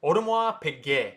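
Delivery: Audemars Piguet as oh-duh-mwah pee-gay; French pronunciation. Shown as a demonstration. Teacher repeats it for viewers, French pronunciation. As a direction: silent endings on Audemars Piguet. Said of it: "So that's how you say".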